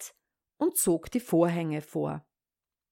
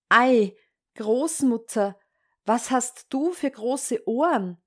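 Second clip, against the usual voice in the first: a hint of amazed Red Riding Hood; lightly voiced wondering child; 3 semitones higher than usual. Red Riding Hood questions disguised wolf.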